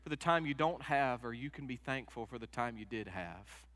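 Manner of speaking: quoting the movie pastor with rising emphasis; pastor's advice. Retold or imitated. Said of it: "he said".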